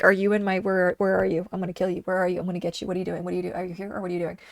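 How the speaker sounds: soft, muttered hunting threats; dog voiced stalking squirrels, quietly; dog's inner voice.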